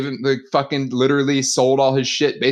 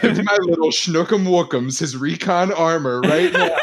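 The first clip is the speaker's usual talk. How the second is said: demanding mom; slower than usual. Retold or imitated. Voicing the mom's demand.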